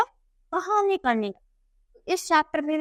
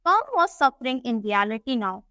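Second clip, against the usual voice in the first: slow, deliberate English reading; story read-aloud; much slower than usual. A narrator's reading. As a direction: read it out slowly for a class. (धीमे-धीमे कहानी का पाठ)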